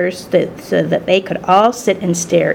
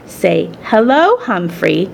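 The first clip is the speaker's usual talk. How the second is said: gentle, slow prompt; gently instructing; slower than usual. Acted. Daughter instructing her mother in English, gentle and slow. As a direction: show her kindly how to say it. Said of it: "Saya gently instructed her mother".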